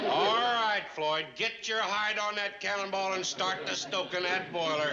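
bossy order. Acted. New boss gives orders.

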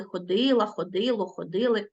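ходила, ходило, ходили stressed on ДИ; stress on root. Shown as a demonstration. Teacher shows pupils root stress, stressing ДИ in ходила, ходило, ходили. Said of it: "наголос падає на корінь".

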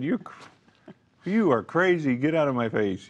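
a half-joking scoffing retort to a pushy believer; mock dismissive retort. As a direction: scoff it like they're crazy. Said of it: "I would have said".

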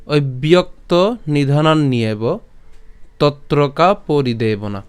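slow, measured Sanskrit shloka recitation; stretched, deliberate scripture reading; verse recitation. Shown as a demonstration. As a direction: recite the verse slowly, line by line.

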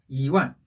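"이" rising weakly, "완" falling strongly; weak-strong tones on "이 완"; second-tone 이. Shown as a demonstration. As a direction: lift "이", then drop "완". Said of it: "그래서 이 성".

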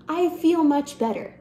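scoff, then insist on it ironically; ironic relief. Acted. Monologue, bitter repeat after humiliation.

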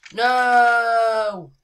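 sudden loud shouted no. Pretend. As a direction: yell it out in refusal. Refusing loudly, shouting no.

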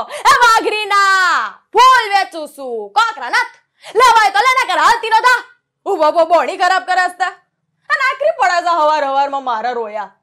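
loud, brash village flower seller in rustic Gujarati; rustic Gujarati dialect. Acted. Santu the flower seller, loud in rustic Gujarati dialect. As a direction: shout your wares in broad rustic Gujarati. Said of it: "સંતુ રંગીલીમાં મારી તળપદી ભાષા".

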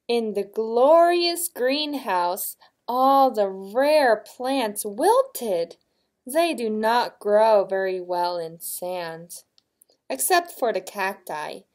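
slow, expressive picture-book reading; story narration. A narrator's reading. Reading to a child about wilted greenhouse plants, expressive narration. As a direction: read it out slowly to a child.

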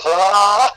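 mock yell. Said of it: "Give me your eyes and go".

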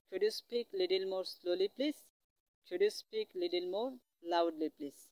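very slow, word by word English; very slow teaching demo. Shown as a demonstration. Teacher modelling a polite request for students, very slowly. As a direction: drag out each word for the class. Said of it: "এইভাবে practice করবেন".

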